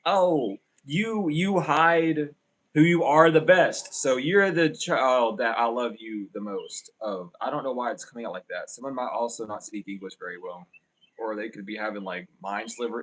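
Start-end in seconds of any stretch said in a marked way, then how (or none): 0.0-7.3 loud, drawn-out gushing praise; pedestal-putting relative. Acted. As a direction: play a relative lavishing adoration, big and slow. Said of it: "your family is very much like pedestal people".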